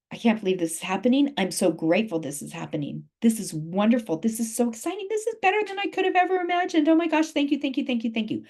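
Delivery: rising into high, breathless thanks; excited gratitude. Pretend. Coach modelling grateful self-talk, building to high thrilled thanks. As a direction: gush thank you like it just came true.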